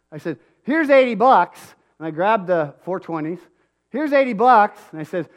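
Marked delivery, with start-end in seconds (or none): 0.6-1.7 loud, high, slow, demanding; a father laying down the law; angry confrontation. Retold or imitated. Dad confronting carnies over his son's unpaid wages, angry. 3.9-4.8 a father laying down the law; angry confrontation. Retold or imitated. Dad confronting carnies over his son's unpaid wages, angry.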